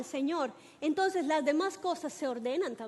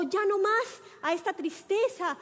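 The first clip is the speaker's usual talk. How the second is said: raised, higher voice of refusal; defiant victory cry; 4 semitones higher, 3 dB louder than usual. Retold or imitated. Preacher models telling sadness no more, restrained defiant cry. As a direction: declare it like a war cry, held back. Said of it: "es un grito en donde usted le dice".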